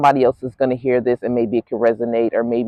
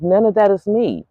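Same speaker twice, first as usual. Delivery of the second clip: flat dismissal; 5 semitones higher than usual. Retold or imitated. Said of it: "but I'm like".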